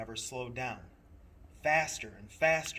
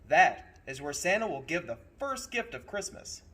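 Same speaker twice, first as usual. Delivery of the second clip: louder conductor explaining; 4 semitones higher, 8 dB louder than usual. Acted. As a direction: build up the secret.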